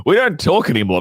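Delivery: put-on complaining girlfriend. Live-in girlfriend to boyfriend, mock high-pitched complaint. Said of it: "she'll be like".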